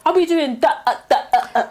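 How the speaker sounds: stumbling over "that" and "uh"; stuttering demo. Shown as a demonstration. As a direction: act out getting stuck on "that", breaking into short "uh" sounds. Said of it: "and the same thing".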